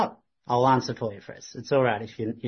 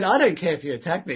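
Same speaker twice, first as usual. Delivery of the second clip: excited; 5 semitones higher, 4 dB louder, faster than usual. Retold or imitated. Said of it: "He's getting excited".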